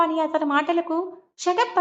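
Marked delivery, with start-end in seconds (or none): 1.4-1.8 shout. Acted. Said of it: "గట్టిగా అరిచాడు".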